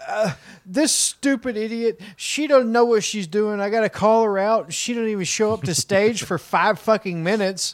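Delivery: griping DJ. Acted. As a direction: vent like a fed-up club DJ. DJ complaining about dancer.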